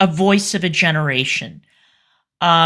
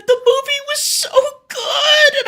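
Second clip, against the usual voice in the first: much higher, cry-shouting through tears; retold sobbing. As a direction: wail it as if sobbing again. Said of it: "And I was sobbing".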